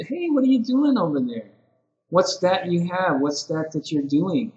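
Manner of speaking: showing interest. Shown as a demonstration. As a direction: sound intrigued by what a student is doing. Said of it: "it's the way you say it also".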